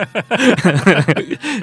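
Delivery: high, loud burst of real laughter; big laugh. Real, not acted. Guest laughing at his own drive-thru prank, loud high laugh.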